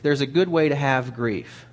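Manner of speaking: good leaned on with a falling tune; good pressed, the line falling off; stress on good. Shown as a demonstration. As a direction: lean into the word good. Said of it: "There is good grief".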